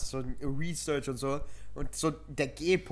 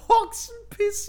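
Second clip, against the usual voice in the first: laughing squeal; 7 dB louder, much slower than usual. Real, not acted. Laughing disbelief at friend.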